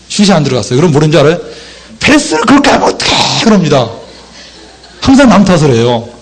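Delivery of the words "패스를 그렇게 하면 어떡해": high-pitched exasperated complaint; mock blaming. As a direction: blame a teammate in a raised, acted voice. Soccer player blaming a teammate. (남 탓하는 높은 목소리 흉내)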